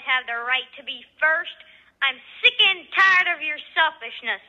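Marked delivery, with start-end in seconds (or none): 2.0-4.4 heated, louder complaint to a rival neighbour; angry. Acted. Housewife scolding a selfish neighbour, angry. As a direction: snap back at her, fed up. Housewives quarrel over laundry.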